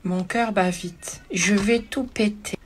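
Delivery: hammed-up dread, dragged out slowly; mock inner panic. Inner panic over angry buyer.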